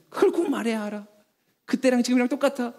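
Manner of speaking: a touch of annoyance, acted; mildly irritated retort. Husband retorting to wife's complaint, mildly annoyed. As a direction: snap back half-heartedly. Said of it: "오히려 화를 내면서".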